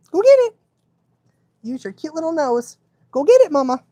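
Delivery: encouraging dog. Real, not acted. Commanding dog to search.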